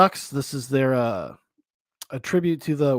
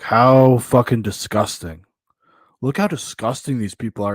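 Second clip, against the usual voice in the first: mock disgust; 3 semitones lower, 6 dB louder than usual. Imitates woman sneering at people.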